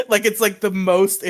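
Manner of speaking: laughing through the words. Real, not acted. Telling a podcast friend about crying at a bar, laughing. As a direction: chuckle as you say it.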